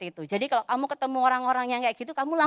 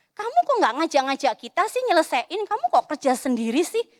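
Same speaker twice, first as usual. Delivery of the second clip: mock angry kid; 3 semitones higher, 3 dB louder than usual. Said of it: "yang dia itu marah duluan".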